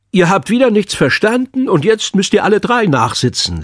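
hohe, verstellte Schülerstimme; verkünde es hoch wie ein Kind den Mitschülern; altkluges Kind. A narrator's reading. Kind verkündet Mitschülern das Nachsitzen. (Kinderstimme, die Lehrer spielt)

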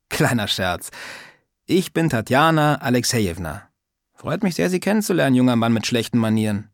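put-on a prying old lady scolding lightly; old woman's voice. Old neighbour teasing Sascha about manners, lightly voiced old woman.

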